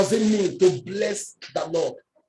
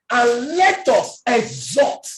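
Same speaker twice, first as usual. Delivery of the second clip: slow verse reading; slower than usual. Acted. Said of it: "slow verse reading".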